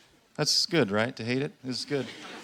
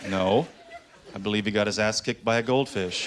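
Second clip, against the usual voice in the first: lower, dry parent reply; deadpan parent; 3 semitones lower than usual. Acted. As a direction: answer the kid flatly and low. Parent answering child deadpan.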